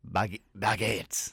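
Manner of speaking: halting, slow French attempt; half-hearted mock French; French accent. Shown as a demonstration. Trying French on request and failing, hesitant French accent. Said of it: "can you do a French".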